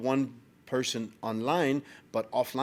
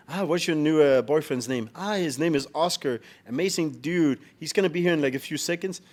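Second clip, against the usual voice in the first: higher, louder acted dialogue; imitating a mother and daughter; 5 semitones higher, 3 dB louder than usual. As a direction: lightly act out their excited exchange. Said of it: "she was asking her daughter".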